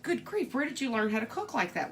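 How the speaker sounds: mock amazement. Luncheon guest asking about the cooking, mildly amazed. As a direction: imitate an astonished guest, lightly.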